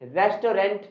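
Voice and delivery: "रेस्टोरेंट" in three parts, res-to-rent; common mispronunciation. Shown as a demonstration. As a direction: sound a full "to" and "rent" in "रेस्टोरेंट". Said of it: "नहीं होता". ("रेस्टोरेंट" को रेस-टो-रेंट बोलें)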